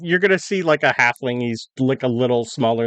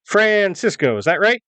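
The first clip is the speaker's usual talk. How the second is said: higher-pitched officer checking a name; lightly voiced officer, pitch raised to question; inquiring officer; 7 semitones higher than usual. Officer reads newspaper and identifies traveller, higher questioning voice. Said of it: "look at the newspaper and go".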